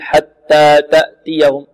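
wrong demo, hard unaspirated T in حتى تأتيهم; T without breath. Shown as a demonstration. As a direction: cut all the breath from each T in حتى تأتيهم. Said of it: "نعدم الهمس في التاء".

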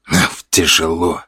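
slow, strained sigh under a heavy sack; heavy load, breath pushed out; strained under weight. A narrator's reading. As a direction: groan the words out while lifting. Hauling a sack of potatoes.

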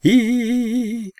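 very high wordless squeal of a madman; madman's long high-pitched squeal while charging; piercing squeal. A narrator's reading. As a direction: keep shrieking like a crazed man running. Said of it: "по-прежнему пронзительно визжа".

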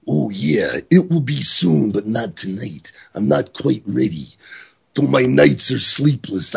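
lightly voiced Randy Savage reading a wrestling promo. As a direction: read the promo as a hint of Macho Man. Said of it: "I read it in the voice of Randy Savage".

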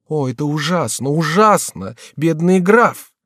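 distressed lament. Acted. Jeanne laments count's death.

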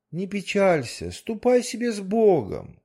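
high, gentle fairy-tale dismissal; goldfish voice. Acted. The goldfish sends the manager away, high gentle voice. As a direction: send him off kindly in a high voice.

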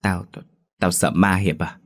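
lắp bắp, ngắt quãng từng tiếng đầu câu; đóng vai người sợ đến cà lăm; nói lắp sợ hãi. Acted. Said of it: "nói lắp ba lắp bắp". (giọng sợ, nói lắp ba lắp bắp)

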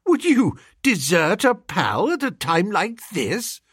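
high-pitched, wounded appeal; pleading. A narrator's reading. Narrator to pal deserting him, pleading.

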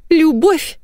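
high, laughing scoff of "Любовь?"; wife mocking her husband's claim of love; hysterical laugh. A narrator's reading. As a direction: laugh it out in disbelief. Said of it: "истерически засмеялась Наташа".

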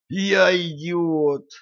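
high, very slow cry of horror; в ужасе; horrified. A narrator's reading. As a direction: realize the disaster. Horror, self-reproach.

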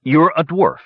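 high-pitched glum statement. A narrator's reading. Warrior answers the dwarf who claims godhood, glumly. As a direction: point it out with no enthusiasm. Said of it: "said the warrior glumly".

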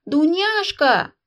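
put-on old princess yelling for her maid; shouting a maid. A narrator's reading. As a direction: bellow across the house. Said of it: "во всё горло закричала".

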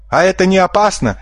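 high, timid squeak; frightened squeak. A narrator's reading. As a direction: squeak the question in fear. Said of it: "испуганно пискнул Кроль". (испуганный писк)

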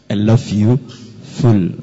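lightly voiced impression of a singer; a low easy hint of the singer. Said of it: "kata sang penyanyi". (tirukan ringan gaya santai)

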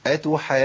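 "أتحاجون" with long madd and unforced jim; relaxed doubled jim after held "aa" in "أتحاجون"; easy recitation. Shown as a demonstration. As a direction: enter the jim of "أتحاجون" without pushing. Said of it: "اقرأ بشكل سهل".

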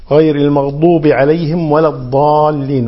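continuous recitation, long vowel in الضالين; correct recitation. Shown as a demonstration. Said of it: "فننتبه".

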